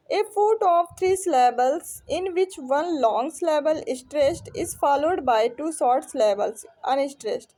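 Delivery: slow, deliberate definition read-out; measured classroom reading; reading aloud. Acted. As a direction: read the definition out carefully, phrase by phrase. Reads out exam question.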